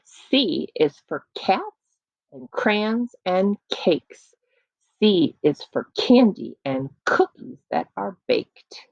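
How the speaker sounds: slow poem read again; sound poetry. Shown as a demonstration. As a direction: recite it slow and bouncy.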